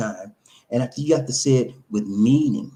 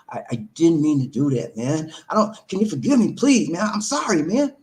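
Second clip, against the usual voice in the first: remorseful pleading. Acted. Wrongdoer begging a man for forgiveness, remorseful plea. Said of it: "I had feelings of remorse".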